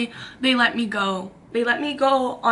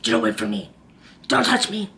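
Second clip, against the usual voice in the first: frightened plea; 2 semitones lower than usual. Retold or imitated. Fending off grabbing people.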